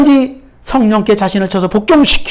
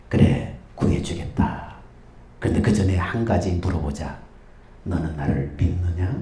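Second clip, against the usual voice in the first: voice of God; 10 dB quieter than usual. Acted. God's voice continues.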